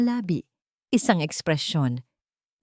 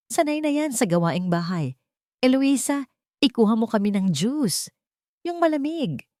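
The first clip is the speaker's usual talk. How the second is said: bossy order; 6 semitones higher than usual. A narrator's reading. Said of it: "Utos iyon, hindi pakiusap".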